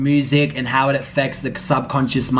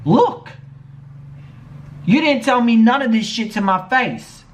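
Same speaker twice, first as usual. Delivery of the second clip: sharp, raised angry voice; 5 semitones higher than usual. Real, not acted. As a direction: call her out hard. Angry call-out of Erica.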